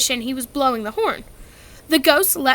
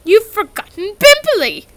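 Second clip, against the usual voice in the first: hissed; 9 semitones higher, 8 dB louder than usual. A narrator's reading. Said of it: "Peeves hissed in her ear".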